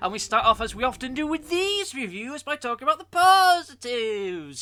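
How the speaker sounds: goofy put-on voice, very high and loud. Anime episode reviewer moves on to the positives in a silly voice. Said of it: "I put a silly voice on".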